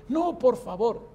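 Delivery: súplica aguda y lenta, imitada; enfermo suplicante. Retold or imitated. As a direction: imita al viejo rogando, alargando las palabras. Enfermo suplica que no se vaya. (ruego lastimero del enfermo)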